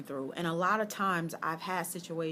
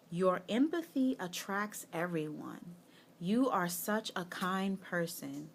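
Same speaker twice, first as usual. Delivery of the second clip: reading the card; 3 dB quieter than usual. Shown as a demonstration. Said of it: "the news flash says".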